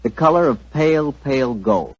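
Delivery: friendly radio ad pitch; cozy old-time sponsor spot; commercial read. Acted. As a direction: sell the wine to the folks at home.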